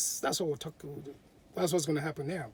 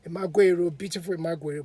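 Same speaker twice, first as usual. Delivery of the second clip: calling out; 3 semitones higher, 10 dB louder than usual. A narrator's reading. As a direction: sing out her name to the house. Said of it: "called out again as usual".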